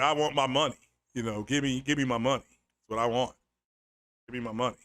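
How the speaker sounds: deep, processed voice-changer filter; primal sound voice changer. Pretend. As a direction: demand the money through a growling voice effect. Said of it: "I hit something called Primal Sound".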